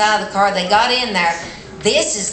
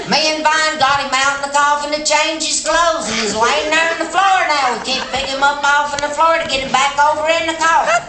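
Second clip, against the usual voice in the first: voicing little Betty; 6 semitones higher than usual. Betty pleads for help with body.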